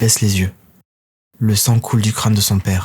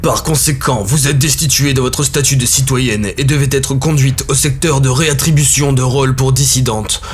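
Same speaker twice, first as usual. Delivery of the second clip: lightly voiced formal accusation; arbitress stating charges; 2 semitones higher than usual. Arbitress accusing the mother, lightly voiced formal tone. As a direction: read out the charges like a judge. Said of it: "continue l'arbitresse".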